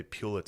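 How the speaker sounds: Pulitzer said PEW-litzer, long PEW; snooty pronunciation. Shown as a demonstration. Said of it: "If you wanna be a real cunt".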